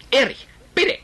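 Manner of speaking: laut und hoch flehend. Acted. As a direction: bitte ihn laut und verzweifelt. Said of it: "eine recht laute Unterhaltung". (Mutter fleht Erich an, hoch und laut)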